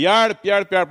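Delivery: calling for help. Shown as a demonstration. Preacher showing Milla how to cry for help, loud call. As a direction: call out "Hjelp" loudly, as if sinking. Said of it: "og så roper du".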